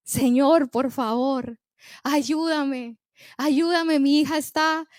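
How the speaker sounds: tearful plea. Acted. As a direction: beg for her daughter, lightly tearful. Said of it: "Llorando la mujer, gritando, clamando".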